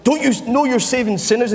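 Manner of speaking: a hint of a sneering accuser; lightly voiced devil. Preacher voicing the devil taunting Jesus, lightly put-on. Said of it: "It's like the devil saying".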